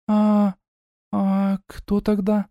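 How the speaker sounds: halting little sister's question; lightly voiced uncertain girl; sister's hesitant voice. A narrator's reading.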